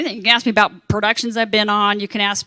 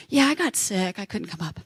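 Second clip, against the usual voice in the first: sheepish excuse; 3 semitones lower, 8 dB quieter than usual. Retold or imitated. Retold phone excuse.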